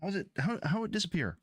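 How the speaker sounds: very high baffled squeak; baffled disbelief. Real, not acted. Streamer baffled that the tool vanished, high disbelieving squeak. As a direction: shriek the question in disbelief.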